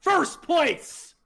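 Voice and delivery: hyped frat bro yell. Real, not acted. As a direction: shout it like a pumped-up frat bro. Hyped celebration.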